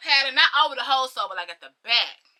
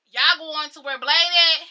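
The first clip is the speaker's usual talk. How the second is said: slower, louder call to people ahead; calling after them; 3 semitones higher, 6 dB louder, slower than usual. Retold or imitated. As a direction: call out a question, drawn out. Calls after people walking ahead.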